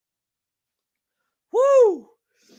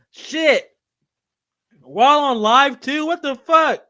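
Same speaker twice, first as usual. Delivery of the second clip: recovering from choking; 7 semitones higher, 7 dB louder, slower than usual. Real, not acted. Still choking after coughs.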